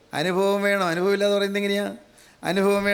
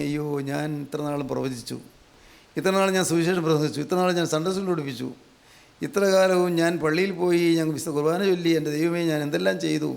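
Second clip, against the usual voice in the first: Isaiah's lament; 3 semitones lower than usual. Acted. Isaiah laments his unclean lips.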